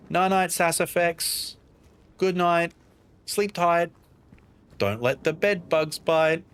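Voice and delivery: drawn-out, lilting good-night send-off; sing-song good night. Real, not acted. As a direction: send them off to bed, stretching each line's last word. Saying good night to a viewer.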